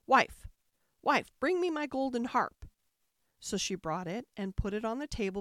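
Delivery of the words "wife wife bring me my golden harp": loud call across the house; ogre calling out. A narrator's reading. Ogre calls his wife to bring the harp, loud. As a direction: shout for the wife to fetch the harp. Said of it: "the ogre called out".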